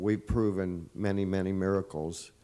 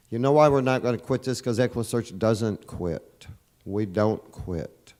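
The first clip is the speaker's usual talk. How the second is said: fast, loud and fired up, then slowing on "We don't quit"; rallying cry; 2 semitones higher, 4 dB louder than usual. Real, not acted. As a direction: rouse the crowd, build to a defiant punch. Rallying the crowd on not quitting.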